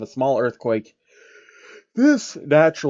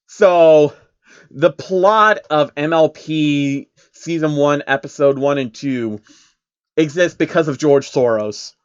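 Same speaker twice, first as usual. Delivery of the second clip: louder, incredulous reader; worked up and amazed; excited realisation; 2 semitones higher, 6 dB louder than usual. Real, not acted. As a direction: realise the twist with loud disbelief.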